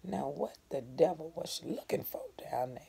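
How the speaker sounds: hushed curious whisper; whispered wonder. A narrator's reading. Cassie peeking from bed, whispering her question. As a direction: wonder under your breath.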